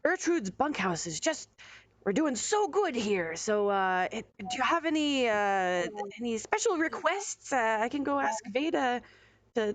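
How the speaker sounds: a proud innkeeper offering food; lightly voiced Bertrude. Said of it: "She's like".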